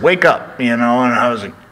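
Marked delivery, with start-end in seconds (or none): 0.0-0.6 Dusty voice. Retold or imitated. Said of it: "he called me and said".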